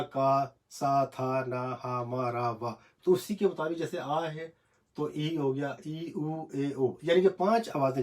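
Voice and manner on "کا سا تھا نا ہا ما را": کا، سا drawn out slowly, then تھا، نا، ہا، ما، را listed; slow syllable recital. Shown as a demonstration. Teacher naming the hiragana columns for the class, slowly. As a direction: sound out the first letters of each hiragana row, slowly. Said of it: "تو جیسے آ".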